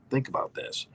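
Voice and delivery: hushed aside. Real, not acted. Urging listener to consider a point.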